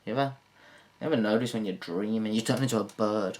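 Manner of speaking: ordinary talk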